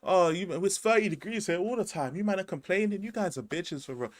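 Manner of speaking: mock an American sneering at Londoners; lightly imitated American complainer. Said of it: "They'll be like".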